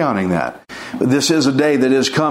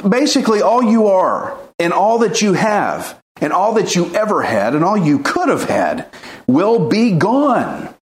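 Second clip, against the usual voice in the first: emphatic preaching; 3 semitones higher than usual. Acted. Preaching climax on scripture.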